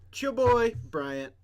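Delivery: high, loud hype intro; hyped intro. Acted. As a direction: hype yourself up for the crowd.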